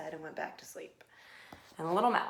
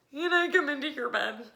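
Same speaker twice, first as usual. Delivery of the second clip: high, loud begging; pleading little mouse; 7 semitones higher, 9 dB louder than usual. A narrator's reading. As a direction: ask hopefully in a small high voice. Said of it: "asked Little Mouse".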